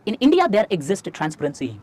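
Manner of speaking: very slow, word-by-word delivery; slow dictation. Shown as a demonstration. Teacher dictating a key line for students to copy, slowly. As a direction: say it slowly so they can write every word. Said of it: "धीरे-धीरे बोल रहा हूं".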